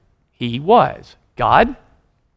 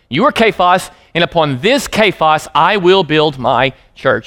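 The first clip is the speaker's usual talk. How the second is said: slow declaration. Shown as a demonstration. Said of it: "identical words".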